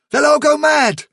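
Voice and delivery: high, frantic warning; gasped alarm. A narrator's reading. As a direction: cry out in panic. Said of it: "he gasped".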